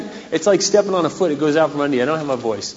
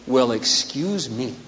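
sarcastic excuse me; 2 semitones lower, 5 dB quieter, slower than usual. Acted. Sarcastic retort, slow.

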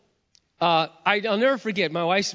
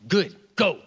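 louder, curt mock send-off; curt retort; 3 semitones higher, 5 dB louder than usual. Wife sending her angry husband off, curt retort. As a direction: throw it back as a short dismissal.

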